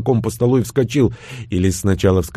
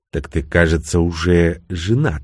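snide remark; 5 semitones lower than usual. Acted. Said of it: "ехидно заметил я".

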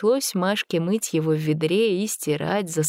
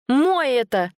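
high, louder possessive cry; lowing protest; 7 semitones higher, 4 dB louder, slower than usual. A narrator's reading. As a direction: claim him fiercely. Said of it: "замычала Машка".

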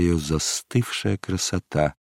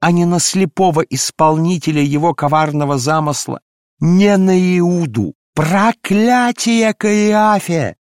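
much higher, loud, slow ecstatic wailing; frenzied invocation; 10 semitones higher, 5 dB louder, slower than usual. Acted. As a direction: cry out to God in a frenzy. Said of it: "исступлённо взывала". (исступлённый вопль к Богу)

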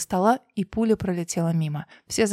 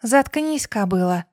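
coldly hissed; slower than usual. Acted. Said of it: "холодно процедила Динушка".

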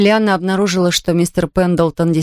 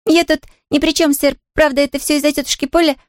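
put-on higher, bright girl's voice, nodding happily; eager little girl; 8 semitones higher than usual. A narrator's reading. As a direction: play a delighted young girl. Pollyanna laughs it off.

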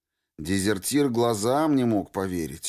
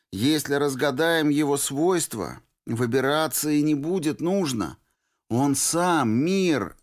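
put-on higher pleading girl's voice; Norris voiced; 7 semitones higher than usual. A narrator's reading. Girl urging the deserter to hide, higher and pleading. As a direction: play the stubborn girl urging him to hide. Norris argues about the zone.

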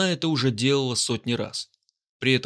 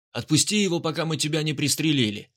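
shouted threat; 4 semitones higher than usual. Acted. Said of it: "крикнул тип с пистолетом".

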